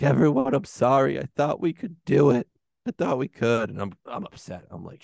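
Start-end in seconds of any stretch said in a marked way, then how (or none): 0.0-3.7 lightly acted apology over the comms; hint of a defeated pilot addressing everyone; Poe Dameron. Pilot apologizes as the battle turns sideways, lightly acted despair. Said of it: "and Poe's like".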